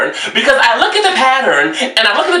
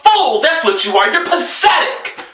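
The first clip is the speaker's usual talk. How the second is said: scornful insults; 4 semitones higher than usual. Real, not acted. Insulting the letter writer.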